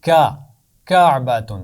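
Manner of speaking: کا then کعبۃ, the k stressed; sound then word. Shown as a demonstration. Teacher sounds out کعبۃ for the children. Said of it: "پہلی آواز حرف کاف کی".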